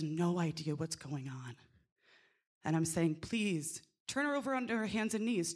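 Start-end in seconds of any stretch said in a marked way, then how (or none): 3.2-5.5 quick, urgent plea; pleading. Retold or imitated. Midwife begs the nurses to turn the mother, quick and pleading. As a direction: beg the staff to turn her over. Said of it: "And I am pleading".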